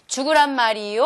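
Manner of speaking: "죽으란 말이요" with the ending let down. Shown as a demonstration. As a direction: drop the end of "말이요". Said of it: "끝부분을 낮춰서".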